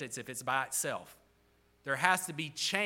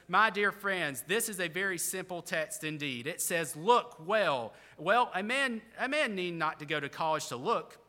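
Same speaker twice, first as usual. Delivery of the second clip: lightly voiced preacher, raised and emphatic; a hint of earnest country preacher; lay preacher; 4 semitones higher, 4 dB louder than usual. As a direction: exhort like an untrained pulpit preacher, key words lifted. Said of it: "The preacher began thus".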